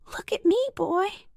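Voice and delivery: high, loud, sharp order; shouted. A narrator's reading. Policeman to a silent boy, shouting. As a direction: shout it to command his attention. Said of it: "shouted the policeman".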